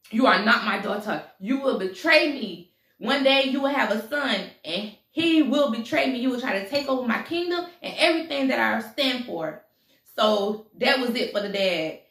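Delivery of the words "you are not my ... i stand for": lightly acted, emphatic denunciation; stern royal father. King accuses his daughter of future betrayal, stern. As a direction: disown her with measured, weighty emphasis.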